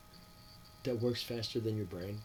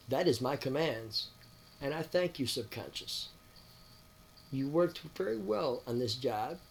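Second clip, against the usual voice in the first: commanding his subconscious; 3 semitones higher than usual. Retold or imitated. Addressing his own subconscious to reprogram memories, firm lightly raised commands. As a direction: give orders like a calm system admin.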